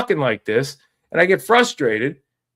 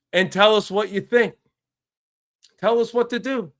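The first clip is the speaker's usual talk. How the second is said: Jimmy Haslam; 4 semitones higher than usual. Retold or imitated. Host imitating the Browns owner pleading, mildly raised and mocking. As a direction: play the owner admitting he's an idiot, lightly mocking. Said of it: "if I was Jimmy Haslam, I would say".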